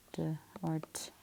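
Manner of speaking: "d, or t" as clipped bare sounds, d then t, breathed out; isolated ending sounds. Shown as a demonstration. Teacher modelling the ed ending sounds for her class, whispered. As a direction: whisper the two sounds "d" and "t" crisply. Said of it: "E D makes the ed".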